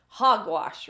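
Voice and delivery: a loud, emphatic dismissal; teacher scoffing, loud and firm; firm exclamation. Acted. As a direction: brush the objection off loudly. Teacher dismisses principal's objection.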